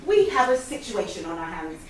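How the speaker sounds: radio report, loud; walkie-talkie voice. Pretend. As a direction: announce it like a radio call. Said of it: "pretend you are speaking to the safety officer".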